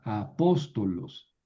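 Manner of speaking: a-POS-to-los, slow and deliberate; teacher's slow model of "apóstolos", stressed on POS; antepenultimate stress. Shown as a demonstration. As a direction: stretch the "pós" of "apóstolos". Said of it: "aquí tenemos una proparoxítona".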